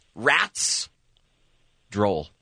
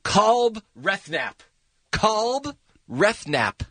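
slow backwards speech; 5 semitones higher, much slower than usual. Shown as a demonstration. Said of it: "history of the Kevin and Bean".

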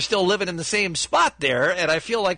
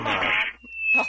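falling wail. Pretend. Nigel falls a second time.

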